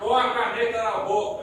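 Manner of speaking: talking around a pen in the mouth. Shown as a demonstration. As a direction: speak with a pen between teeth. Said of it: "Põe aqui, ó".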